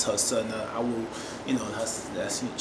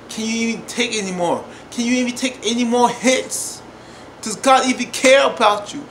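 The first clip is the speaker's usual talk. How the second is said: impassioned preaching; 6 semitones higher, 4 dB louder than usual. Real, not acted. Preaching rhetorical questions about God.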